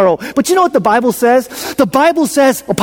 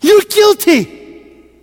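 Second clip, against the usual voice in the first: slow stretched refrain; 10 semitones higher, much slower than usual. Shown as a demonstration. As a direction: drag out guilty slowly, high.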